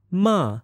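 MA starts high and falls sharply; falling tone. Shown as a demonstration. Teacher demonstrates Chinese sounds, falling tone. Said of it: "Let's try one more time".

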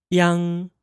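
"yang" as one syllable ending in ng; Mandarin final yang. Shown as a demonstration. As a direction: model "yang" for learners. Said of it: "Repeat after me".

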